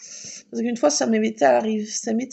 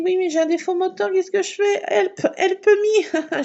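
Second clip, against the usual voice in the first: mock panic; 8 semitones higher than usual. To the garage woman, hammed-up panic. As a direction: play up the panic, slowing on help. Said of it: "je dis".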